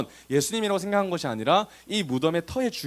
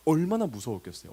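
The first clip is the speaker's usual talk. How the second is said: ordinary delivery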